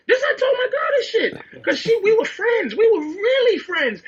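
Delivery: high and laughing through the words; real laughter breaking the story; laughing while talking. Real, not acted. Telling friends about his girl while laughing.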